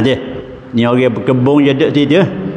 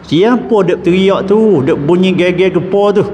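voiced question; 6 semitones higher than usual. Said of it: "pergi mari tanya".

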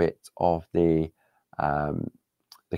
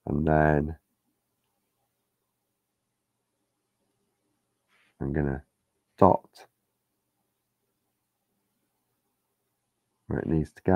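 holding breath while dotting paint. Real, not acted. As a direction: speak on a held breath. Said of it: "don't know why I'm holding my breath".

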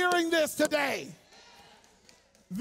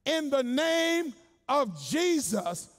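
exorcists' command; much slower than usual. Retold or imitated. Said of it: "they literally say".

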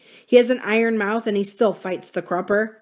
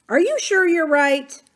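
anxious question pitched higher; 9 semitones higher, 4 dB louder than usual. A narrator's reading. Lee to Samuel, fearing the news will harm Adam, anxious. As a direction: ask it with worry pushing the voice up. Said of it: "Lee asked anxiously".

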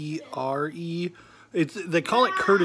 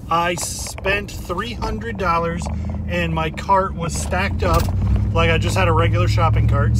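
talking while the car bounces; on a bumpy road; 5 dB louder than usual. Real, not acted. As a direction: voice jolted by road bumps. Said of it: "Sorry about the shaking".

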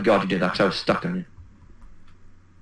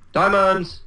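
high-pitched call of a false find; excited prank call-out; mock excited shout; 8 semitones higher than usual. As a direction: fake a thrilled discovery.

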